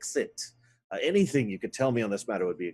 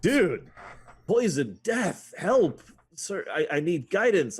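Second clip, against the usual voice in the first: mock panic; 8 semitones higher, 3 dB louder, slower than usual. Player panics in character.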